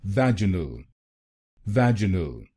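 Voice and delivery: "vaginal" with "vej" strongest; stress on first syllable. Shown as a demonstration. Teacher showing American stress on "vaginal". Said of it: "पहले शब्दांश पर जोर डालेंगे".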